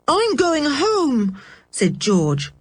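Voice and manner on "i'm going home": slow, high, tight with anger; angry. Acted. George to Dick after the quarrel, slow and angry. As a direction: announce it with hurt fury. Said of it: "her face scarlet with anger".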